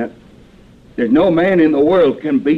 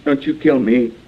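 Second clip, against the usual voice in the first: pleading; 4 semitones higher than usual. Acted. Cornered fake marshal begging Cicero not to shoot, mild frightened pleading. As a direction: beg him not to shoot.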